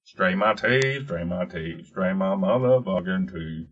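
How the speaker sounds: talking with dental trays in. Shown as a demonstration. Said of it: "what happens if I just put my top teeth in".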